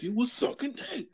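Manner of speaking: high, slow granddad impression. Imitating the granddad exposing her at dinner, accusing. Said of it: "he was playing a granddad".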